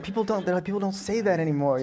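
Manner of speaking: high, laughing through the words; half-laughing mock correction; amused teasing tone with a laugh; laughing quote. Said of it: "And he's like".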